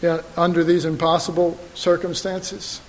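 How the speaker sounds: soft, earnest request; a hushed, earnest Peter; quiet sincere plea. Acted. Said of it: "He said".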